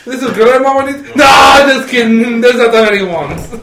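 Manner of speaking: playful hammed-up introducer; mock Felipe voice.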